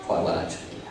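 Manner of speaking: dry whispered aside. Real, not acted. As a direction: whisper it as a wry afterthought. Wry aside after speech line.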